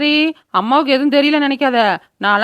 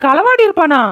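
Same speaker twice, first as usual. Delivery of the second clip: shocked; 4 semitones higher, 3 dB louder than usual. Acted. Mother shocked son stole.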